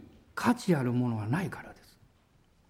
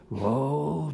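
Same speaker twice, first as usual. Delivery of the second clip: low mock lion roar; devil roar; 8 semitones lower, much slower than usual. Preacher voicing the devil to the congregation, a low mock roar. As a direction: growl it like a roaring lion. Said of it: "って言います".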